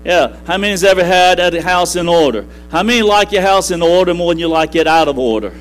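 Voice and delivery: emphatic, driving sermon delivery; rousing preaching. Real, not acted. Preacher urging the congregation toward order over chaos, rousing preaching. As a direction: preach it with rising fervor, punching the key words.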